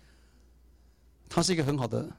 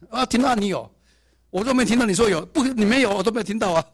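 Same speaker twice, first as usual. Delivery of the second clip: mock protest; 7 semitones higher, 5 dB louder than usual. Mock quarrel over hearing tongues.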